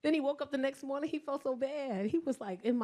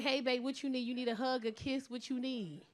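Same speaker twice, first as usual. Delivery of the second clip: soft caring request, trailing softer; gentle offer demo; 6 dB quieter than usual. Shown as a demonstration. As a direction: model how he should comfort you. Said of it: "Just be like".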